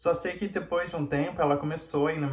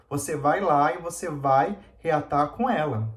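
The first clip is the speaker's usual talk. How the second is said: higher, louder retold scolding; mock the mother ordering him back, raised voice; imitating furious mother; 3 semitones higher, 3 dB louder than usual. Mãe dela exige que ele volte. (imitando a mãe furiosa, voz mais alta e aguda)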